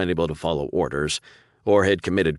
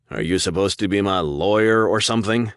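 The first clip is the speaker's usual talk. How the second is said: dry, mocking and drawn out, a little louder; sarcastic drawl; 4 semitones higher, 5 dB louder than usual. Prisoner mocking the suited visitor, sarcastic drawl. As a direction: sneer at him as if the idea is absurd. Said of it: "in a sarcastic drawl".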